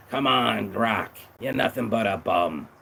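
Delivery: lightly voiced tough old trainer; a hint of a coach berating his fighter; gruff boxing coach. Coach insulting his boxer, lightly voiced gruff trainer.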